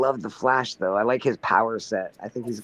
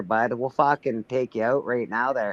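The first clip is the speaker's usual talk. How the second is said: mock Canadian. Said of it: "get Canadian there".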